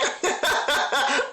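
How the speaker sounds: high imitated giggle; mocking laugh. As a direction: laugh it off as Shantae would. Retelling Shantae laughing at the idea.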